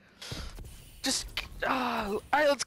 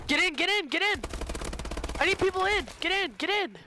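urgent yelled callout; 5 semitones higher than usual. Real, not acted. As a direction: shout teammates onto the point.

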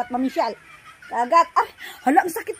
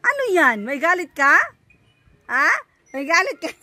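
mock confrontation; 6 dB louder than usual. Mock-confronts baby about being angry.

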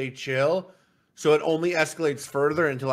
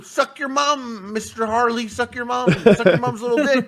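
defiant taunting; 7 semitones higher, 4 dB louder than usual. Retold or imitated. Kid insulting the teacher, retold.

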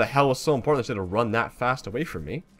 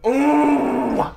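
drawn-out high "ooh"; high-pitched frustrated cry; 13 semitones higher, 4 dB louder than usual. Real, not acted. Player alone at the game, high cry. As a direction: let out a long, high wordless cry.

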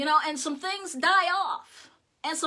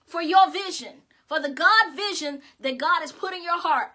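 forceful, driving sermon delivery; emphatic preaching; 3 dB louder than usual. Real, not acted. Preacher promising the congregation their vision will rise, emphatic preaching. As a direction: preach it with rising conviction.

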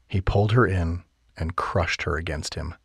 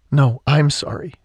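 higher, louder insistent apology; 8 semitones higher, 5 dB louder than usual. A narrator's reading. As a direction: stress on I'm, pushing back.

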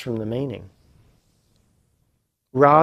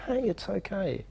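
soothing self; 7 semitones higher, 9 dB quieter than usual. Retold or imitated. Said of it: "rather than go".

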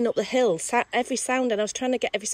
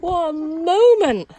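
slow, louder, laughing and teary; laughing through tears; 8 semitones higher, 8 dB louder, much slower than usual. Real, not acted. After the train passed, laughing and tearful with her friend. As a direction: savour it, overcome.

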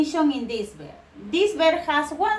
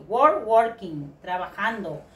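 slow modelling; 4 semitones lower, slower than usual. Shown as a demonstration. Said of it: "this verb is necessary to write the I N G".

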